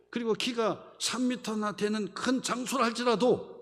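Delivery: high, forceful retold protest; righteous indignation. Young David answers King Saul about the Philistines, indignant. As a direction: preach it as David's indignant challenge.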